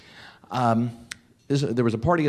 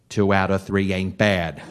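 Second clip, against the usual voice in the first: laughing; 5 semitones lower than usual. Real, not acted. Punchline, laughing.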